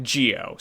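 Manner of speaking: Gio said almost like "JEE-oh"; close to j. Shown as a demonstration. Co-host comparing the name's sound, Gio close to "JEE-oh". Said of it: "almost like".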